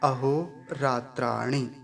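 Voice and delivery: अहोरात्राणि slowly with a quick short णि; short final i. Shown as a demonstration. Teacher showing the short णि in अहोरात्राणि. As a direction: end अहोरात्राणि on a clipped short णि. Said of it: "पूरा उच्चारण क्या होगा".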